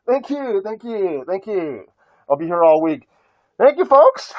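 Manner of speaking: hammy stage comic soaking up applause; brash vaudeville comic. Pretend. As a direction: play it like a nightclub comedian taking bows. Mock bows after joke, "here all week.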